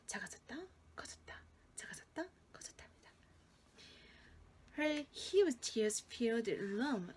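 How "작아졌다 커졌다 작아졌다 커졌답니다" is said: fading to a hushed whisper. Shown as a demonstration. 작게 속삭이며. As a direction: whisper it like a secret. Teacher telling story to children.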